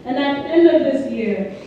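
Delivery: slow, solemn statement read aloud; formal reading. Real, not acted. Leader reading a pledge while the group holds up fists, solemn.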